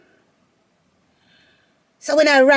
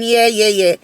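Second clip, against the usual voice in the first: sassy inner boast. Retold or imitated. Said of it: "I'm thinking".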